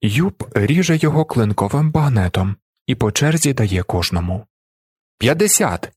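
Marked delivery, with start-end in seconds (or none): 5.2-5.9 higher, sharp furious outburst. A narrator's reading. Card player losing his temper at the table, furious cry. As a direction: blurt it out like a man losing at cards. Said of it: "скаженіє Валентин".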